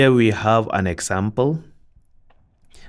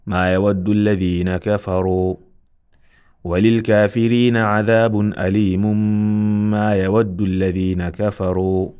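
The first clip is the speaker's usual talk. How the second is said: Quran recitation; faster than usual. Acted. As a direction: recite it out with Tajweed. Recites joined verses.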